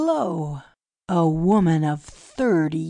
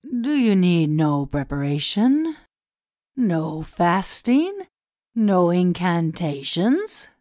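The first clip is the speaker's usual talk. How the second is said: incredulous; 5 dB louder, slower than usual. A narrator's reading. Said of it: "The priest's tone was incredulous".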